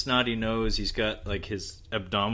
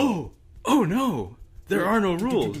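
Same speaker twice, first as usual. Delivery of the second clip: mock dread; 9 semitones higher, 4 dB louder than usual. Gleeful dread over movie deaths.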